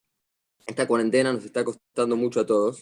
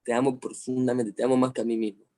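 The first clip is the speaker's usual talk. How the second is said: tender to son; 3 semitones lower than usual. Retold or imitated. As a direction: tell your son you love him, gently. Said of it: "lo miro a los ojos y le digo".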